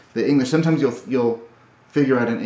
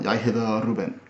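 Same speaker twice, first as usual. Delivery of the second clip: Danish accent. Shown as a demonstration. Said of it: "Danish is something like".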